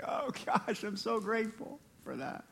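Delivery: very soft, humbled thanks; hushed gratitude. Acted. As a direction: drop right down as if privately thanking God. Acts out his thankful response to God.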